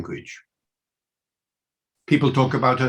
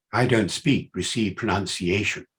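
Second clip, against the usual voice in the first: put-on BBC accent, lower in pitch; received pronunciation; 4 semitones lower than usual. Shown as a demonstration. Lecturer showing he could adopt RP, put-on BBC accent. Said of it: "adopt the accent of the B B C".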